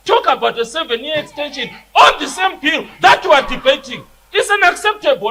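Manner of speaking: angry protest. Real, not acted. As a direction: protest hotly at the chair. Member angrily protests the Speaker.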